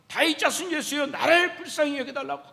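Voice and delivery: imitated cry for help; retold loud plea. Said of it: "크게 소리를 지릅니다".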